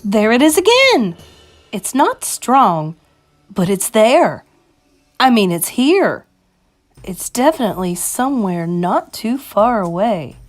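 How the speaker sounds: high cry settling into intent sniffing-out; excited witch tracking a smell; shouted, easing off. Acted. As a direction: start loud and high, then narrow it down. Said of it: "shouted the first witch".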